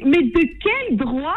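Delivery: slow, drawn-out outraged question; imitating Khalid. Co-host joining in, mimicking Khalid's outrage slowly. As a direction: stretch out the indignation mockingly. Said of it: "Et il te dit".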